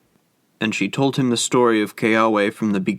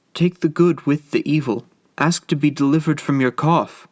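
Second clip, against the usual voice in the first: urgent plea; 4 semitones higher than usual. Acted. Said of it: "Kokua panted".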